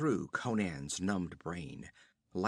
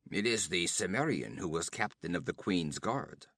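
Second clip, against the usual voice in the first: guttural nomad; 4 semitones lower than usual. Acted. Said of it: "guttural accents of a Zuagir".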